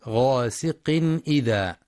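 غاسق إذا with the nunation n pronounced clearly before the hamza; clear izhar. Shown as a demonstration. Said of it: "بيان الإظهار الحلقي". (غاسقٍ إذا بإظهار التنوين)

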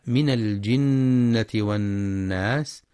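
slow tajweed recitation; Quran recitation. Shown as a demonstration. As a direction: recite slowly. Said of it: "وفي قوله تعالى". (تلاوة متأنية)

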